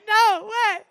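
high, laughing no way; laughing disbelief. Retold or imitated. Telling the clerk, laughing high. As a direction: crack up at the news. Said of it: "that was my exact reaction".

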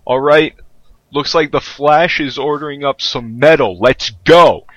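lively radio host announcing. Acted. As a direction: hype it like a DJ. GM voices radio DJ.

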